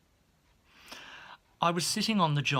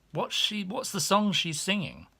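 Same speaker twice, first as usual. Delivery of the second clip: much higher, eager prying voice; high, chirpy maid voice; nosy maid; 7 semitones higher than usual. Retold or imitated. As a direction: pepper him with questions. Nosy maid questions him.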